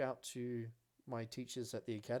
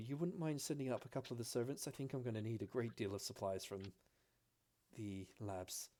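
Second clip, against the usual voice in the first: quick request. Acted. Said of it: "looks at Alara and goes".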